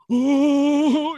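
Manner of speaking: imitating a shaking fan overcome with excitement; mock overexcited fan. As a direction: play the fan who can't contain himself. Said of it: "and he's going".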